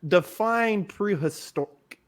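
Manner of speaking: talking through hiccups; words broken by hiccups. Real, not acted. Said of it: "Sorry, I have hiccups".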